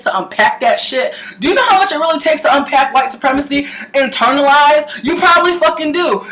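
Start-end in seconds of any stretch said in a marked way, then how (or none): 5.0-6.2 sarcastic jab. Real, not acted. Challenging the audience.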